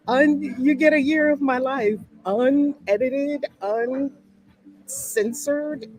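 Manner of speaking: thrilled to share her unfiltered year; excited. Real, not acted. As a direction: savour each word with delight. Excited about raw unedited life.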